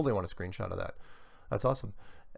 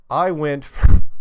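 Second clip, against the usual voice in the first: laughing; 5 semitones higher, 17 dB louder, slower than usual. Real, not acted. Breaks up laughing mid-accent.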